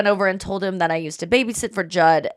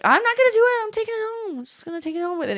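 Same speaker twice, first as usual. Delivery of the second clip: mock childish insistence; 13 semitones higher, much faster than usual. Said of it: "he's like".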